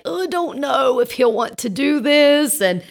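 mild mock-nervous wavering; tentative tiptoeing. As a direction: tread carefully, unsure of asking. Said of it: "tiptoeing a little bit".

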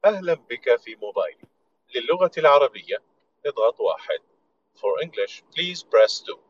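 automated IVR greeting, measured and even; phone menu voice. Shown as a demonstration. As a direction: read it like a recorded phone menu. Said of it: "إذا اتصلت على ألف ومائة هو الرد اللي يطلع لك".

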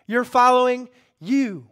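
loud, slow preacher voicing God; high, forceful pronouncement from the pulpit; God's rebuke. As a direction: hammer each phrase out with space between. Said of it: "God's like".

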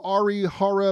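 "Ari Hara" sounded out carefully. Real, not acted. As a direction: say "Ari Hara" as if reading a phonetic spelling. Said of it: "gotta sound it out sometimes".

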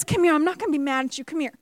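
quiet kind come here; gentle invitation. Retold or imitated. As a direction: coax them back kindly. Elijah gently calling people back.

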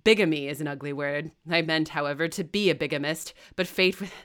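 reckless. Acted. Rochester confesses to the wedding party, loud and reckless. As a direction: fling the truth at them. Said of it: "heartily and recklessly".

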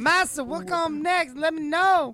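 high, slow, eager servant put-on; mock servile voice. Mock servant reporting his chores to master, servile. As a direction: drag it out high like a hammed-up servant.

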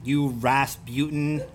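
slow, mock Fargo insult; Fargo accent. Shown as a demonstration. Inventing insults from out there, Fargo accent. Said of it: "what an insult would be from out there".

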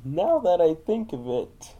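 slow, lightly done Bane; a hint of a scheming Bane. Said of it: "If I do Bane".

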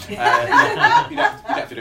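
laughing through the words, fast at the end; breaking up with laughter, high then quick. Real, not acted. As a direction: giggle as you wave them off. Host laughing at applause request.

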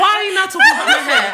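high, fast, laughing question; mock indignant, laughing.

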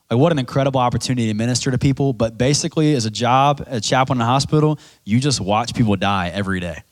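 ordinary talk

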